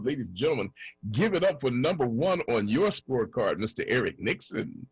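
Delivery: booming pumped announcer. Acted. Announcing the co-host.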